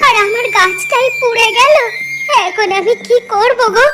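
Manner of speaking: high, wailing protest; tearful lament. Acted. Wife telling husband she never took money, tearful lament. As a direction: plead helplessly through sobs. Wife mourns her burnt plant.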